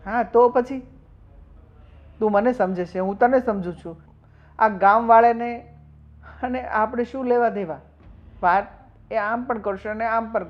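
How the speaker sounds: loud, high, furious shouting; angry outburst. Acted. Husband shouting to wife Geeta about the villagers, loud and furious. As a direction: blast it out, fed up with the village.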